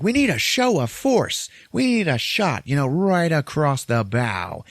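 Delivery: a shock-jock whipping up anger against the government; ranting radio host. Retold or imitated. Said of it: "the guy's like".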